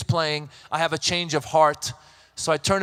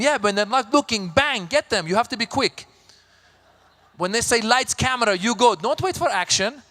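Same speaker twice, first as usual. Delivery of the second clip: Persian mother coaching; 4 semitones higher than usual. Retold or imitated. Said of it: "My Persian mother".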